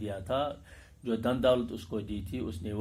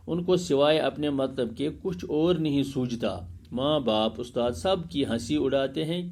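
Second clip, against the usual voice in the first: raised, clear classroom read-aloud; 2 semitones higher than usual. Acted. Teacher reads lesson aloud. (بلند خوانی، صاف اور اونچی آواز میں)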